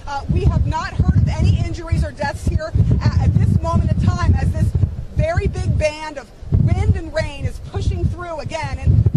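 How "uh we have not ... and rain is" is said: shouting over roaring wind; yelling over hurricane winds. Real, not acted. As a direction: raise your voice over the storm.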